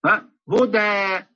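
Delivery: هدى said slowly with the lips spread wide; mock the wrong spread-lip هدى. Shown as a demonstration. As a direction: mistaken recitation demo. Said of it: "يفتح، يفتح فمه، هذا خطأ".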